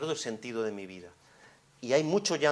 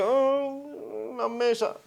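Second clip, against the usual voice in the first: put-on much higher, loud childish oh; high little-kid surprise; child's surprise; 10 semitones higher, 6 dB louder, slower than usual. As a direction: gasp like a toddler spotting something. Child noticing table, acted.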